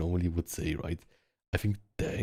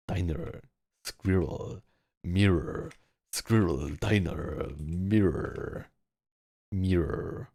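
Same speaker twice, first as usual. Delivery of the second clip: practising American r; much slower than usual. Pretend. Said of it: "Do I sound American?".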